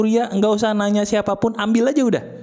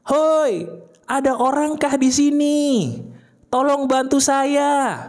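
higher, calling out slowly as if lost in a forest; mock call for help; 5 semitones higher, slower than usual. Lost in the forest, the listener calls for help, mock shout. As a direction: call out for help across the trees, half-acted.

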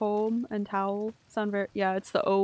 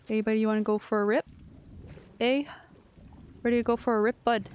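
folksy Canadian buddy talk; faster than usual. Retold or imitated. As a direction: rattle off the phrase like a friendly backwoods pal, lightly imitated. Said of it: "trying to think of a phrase like".

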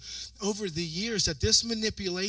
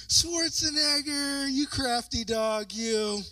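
drawn-out, slow playful reproach; mock admiring reproach; 5 semitones higher, slower than usual. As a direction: stretch it out slowly, starting high and sliding down. Mock scolding on reading the story.

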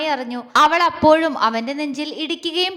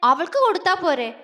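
sulky reproach; 4 semitones higher than usual. Acted. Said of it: "പരിഭവത്തോടെയുള്ള ചോദ്യം".

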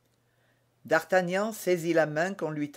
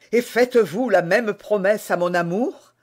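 joyful; 5 semitones higher, 7 dB louder than usual. Acted. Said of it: "au comble de la joie".

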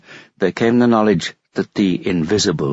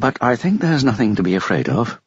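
raised, tentative questioning tune on "afraid of"; 4 semitones higher than usual. A narrator's reading. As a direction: make "nothing to be afraid of" half a question. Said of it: "There was a question in his tone".

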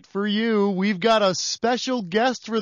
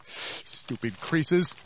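slow grumbling; 4 semitones lower, 6 dB quieter, much slower than usual. Acted. Grumbling at map.

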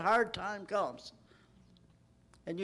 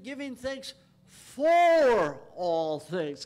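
preached shout; 2 semitones higher, 9 dB louder, much slower than usual. Acted. Quoting Ephesians at full force.

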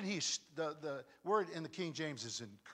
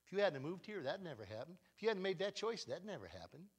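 hushed accusing devil; 6 dB quieter than usual. Retold or imitated. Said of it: "the devil's saying to you".

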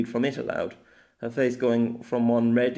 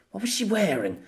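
higher, puzzled self-questioning; 8 semitones higher than usual. Acted. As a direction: ask yourself, trying hard to remember. Man straining to recall a dream.

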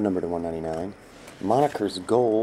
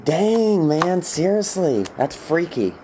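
loud, high exclamation of awe; amazed shout; 7 semitones higher, 4 dB louder, slower than usual. Real, not acted. Seller marvels at the buyer's lucky pull, loud amazed shout. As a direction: blurt it out, still stunned.

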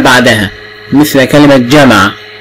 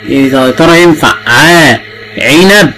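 drawn-out ع before عنب, asked slowly; teacher asking a child to check a match; slow questioning demo; slower than usual. Shown as a demonstration. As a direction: ask slowly, letting ع hang before عنب. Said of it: "teacher matches sound to picture".

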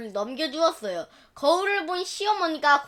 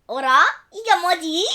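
puzzled surprise; 3 semitones higher, 5 dB louder than usual. Acted. Wife puzzled by mirror.

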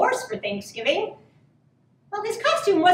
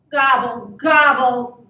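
loud, disgruntled gobbles; grumbling turkey; 8 dB louder than usual. A narrator's reading. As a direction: gobble grumpily and firmly. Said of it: "grumbled Turkey".

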